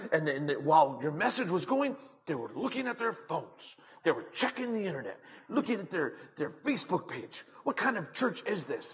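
imitating an indignant churchgoer; huffy complaint. Woman telling the pastor about people on phones, huffy. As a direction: keep up a mild mock outrage. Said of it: "all huffy and puffy".

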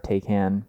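"Taycan" with an ay first and a full "can"; Tay-can pronunciation. Real, not acted. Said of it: "that's my proper pronunciation".

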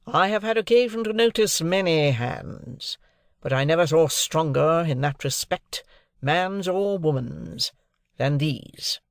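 a cool lawyer sizing up a servant's grip; leisurely, critical. Acted. Jaggers to his guests, leisurely and critical. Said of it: "in a leisurely, critical style".

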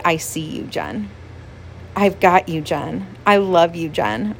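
low, softened comforting words; gently voiced comfort from God; tender reassurance. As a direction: reassure a loved one gently, voice dropping on the name. God tenderly reassuring her, retold.

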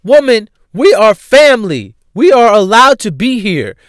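loud, pressed whisper-shout; exasperated insisting. Retold or imitated. At the wedding, telling a guest off in a loud stage whisper. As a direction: insist through your teeth that you belong. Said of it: "And it's like".

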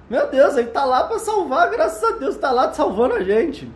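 laughing. Real, not acted. Laughing at superman image.

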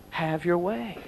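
mean every word of have your way, quietly; sincere. Shown as a demonstration. Preacher truly handing a sermon to God, soft sincere plea. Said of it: "but really".

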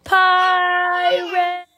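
high, loud alarmed yell. Acted. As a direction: shout the warning high and loud. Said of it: "he yelled".

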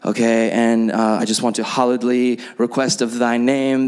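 mock religious prayer voice. Planning a prayer at a meeting, mock pious voice. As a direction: play at sounding spiritual in prayer. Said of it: "these crazy, like, religious sounding prayers".

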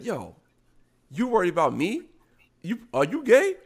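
lightly mocking gay dude voice, rising high on gay; a hint of an affected gay guy, turning the question back. Gay guy taunting the straight dude, lightly imitated. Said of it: "He had a gay accent".

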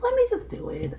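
high, hushed whisper; retold whisper to self. Retold self-coaxing before the pose.

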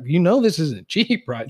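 high, loud, slow mock objection; protesting husband. Husband warning his wife about the tracking cost, imitated protest.

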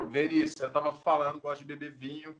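talking around a sip of drink; while sipping a drink. Real, not acted. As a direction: speak mid-sip, mouth half on glass. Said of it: "deixa eu dar um gole aqui". (falando enquanto dá um gole)

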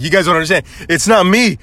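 retold earnest plea; begging. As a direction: plead your innocence, mock-desperate. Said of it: "begging, like".

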